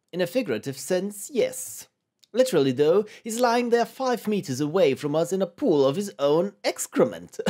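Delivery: put-on pedantic retort in vaguely British accent; poorly British character. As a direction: correct them in a loose British accent. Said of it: "they all sound vaguely and poorly British".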